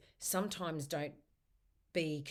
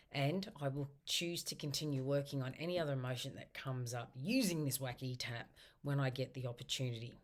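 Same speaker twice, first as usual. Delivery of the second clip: tapping wrap-up affirmation. Shown as a demonstration. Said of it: "wrap up session where you just go".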